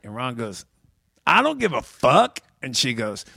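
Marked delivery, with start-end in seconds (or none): 1.3-2.4 shrugging imitation of the comic; gruff reply. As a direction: toss it off like a don't-care comic. Ron White's reply, retold.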